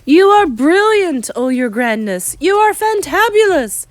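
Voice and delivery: high, loud gushing shrieks; excited high-pitched praise; adoring cries. A narrator's reading. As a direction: gush at your leader like a thrilled crowd. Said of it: "cried the witches".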